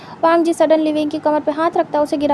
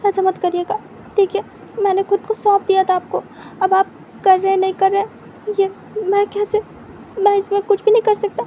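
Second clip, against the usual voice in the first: Wing begging Wang Ji not to ruin the party, higher and pleading; pleading young man; 4 semitones higher than usual. Acted. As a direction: beg him not to cancel.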